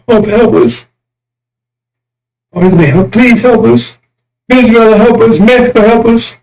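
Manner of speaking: lightly mimicking pleas for help; mock pleading. Preacher mocking enemies begging nations, whiny plea.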